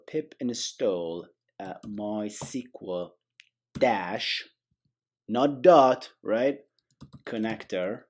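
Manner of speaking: deliberate, badly faked British accent. Shown as a demonstration. Tutor spelling out a package name, mock British accent. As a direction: dictate in a jokey British accent. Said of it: "say it in a British accent".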